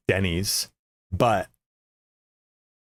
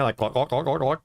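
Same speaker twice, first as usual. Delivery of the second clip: throaty Glaswegian noises; throaty Scottish sound; 4 semitones higher than usual. Shown as a demonstration. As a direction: gargle it from the throat, mimicking Glaswegian. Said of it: "like, throat in there".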